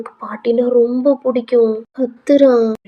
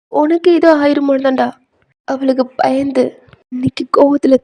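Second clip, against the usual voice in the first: higher-pitched, emphatic emotional pleading; earnest grandmother; 4 semitones higher, 4 dB louder than usual. Acted. Grandmother explaining mother's love to grandson, earnest pleading. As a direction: make him understand, phrase by phrase with pauses.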